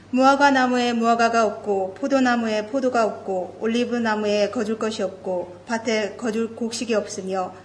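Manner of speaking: rapid, rushed Bible recitation; fast scripture reading. Acted. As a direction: rattle through the passage quickly.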